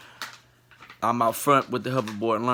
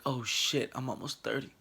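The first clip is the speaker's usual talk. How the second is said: soft, defeated; pained realization; 10 dB quieter than usual. Retold or imitated. Lying hurt on the cement, softly defeated. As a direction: mutter it flat on the ground in pain. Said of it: "I was like".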